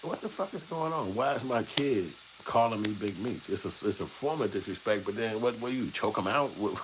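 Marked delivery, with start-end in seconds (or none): 0.0-3.5 baffled disbelief. Retold or imitated. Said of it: "you be looking at this like".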